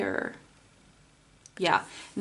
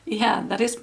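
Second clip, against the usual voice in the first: hoarse, fading voice; losing her voice mid-sentence; 3 semitones higher than usual. Real, not acted. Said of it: "I'm losing my voice".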